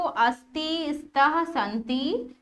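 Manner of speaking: study-drill reading, अस्ति, स्तः, संति one by one; line-by-line recitation. Shown as a demonstration. Teacher showing students how to memorise अस्ति, स्तः, संति, line-by-line recitation. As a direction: recite अस्ति, स्तः, संति as a list, each form set apart. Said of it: "ऐसे line से पढ़ना है".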